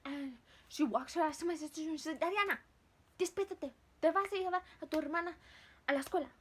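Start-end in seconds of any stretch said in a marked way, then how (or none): 2.2-6.3 raised, higher commanding voice; mother waking someone. Retold or imitated. Mom ordering Dariana awake to drive, loud mother's call. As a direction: call out like a mom rousing a sleeper.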